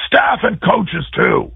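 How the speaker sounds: mock stern coach, slowly drawn out; coach calling out. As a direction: stretch it out like an annoyed coach. Coach summons staff too.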